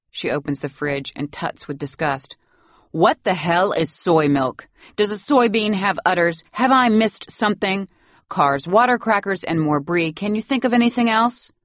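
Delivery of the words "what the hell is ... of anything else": lightly voiced disdainful old lady, higher; incredulous and sneering; scornful grandmother. Grandmother scoffing at the fridge contents, lightly voiced.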